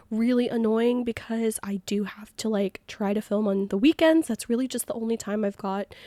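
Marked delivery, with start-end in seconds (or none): 0.1-4.3 unvoiced whisper. Real, not acted. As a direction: drop to a whisper as you complain. Whispered complaint mid-vlog.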